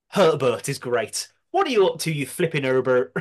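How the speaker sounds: a hint of a Bristolian accent. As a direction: lightly imitate a Bristolian accent. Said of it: "In his Bristolian accent".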